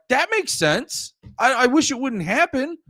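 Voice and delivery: mock half-hearted sympathy; imitating himself. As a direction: say it like a reluctant shrug, up high. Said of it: "I'd be like".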